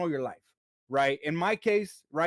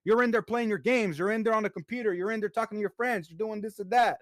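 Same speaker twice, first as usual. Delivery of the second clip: raised pitch, rattling off the list of complaints; wife's exasperated rant; 5 semitones higher than usual. Retold or imitated. Husband voicing his wife's complaint about chores, exasperated and higher. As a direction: play the fed-up wife, higher and exasperated. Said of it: "She's like".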